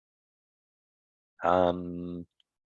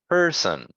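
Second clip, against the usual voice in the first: "Person" with the second syllable lower; "Person" stepping down from PER to son; first syllable stressed. Shown as a demonstration. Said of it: "So this one is lower".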